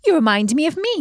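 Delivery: put-on a young princess asking eagerly; princess Beatrice. A narrator's reading.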